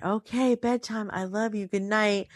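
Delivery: put-on hushed and gentle, tucking a child in; soft bedtime voice. Mother saying goodnight to her son at bedtime, hushed and soft. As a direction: say goodnight softly so he drifts off.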